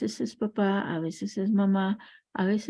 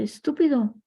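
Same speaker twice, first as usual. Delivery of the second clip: echo; 5 semitones higher, 3 dB louder than usual. Retold or imitated. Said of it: "el eco repite".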